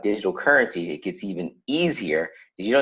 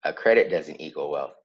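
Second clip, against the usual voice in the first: chewing gum. Real, not acted. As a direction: mouth working on gum. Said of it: "I just put a piece of gum in my mouth".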